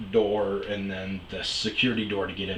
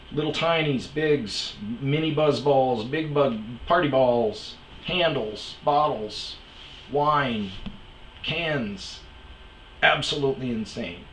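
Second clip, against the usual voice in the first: amazed list; 4 semitones higher, slower than usual. Real, not acted. To the listener, listing the party bottles with mounting amazement. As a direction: rattle them off, still amazed.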